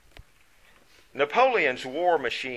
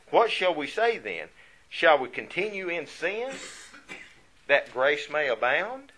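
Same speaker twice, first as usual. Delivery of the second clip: preaching scripture; 3 semitones higher, 5 dB louder than usual. Acted. Preacher reading scripture with force.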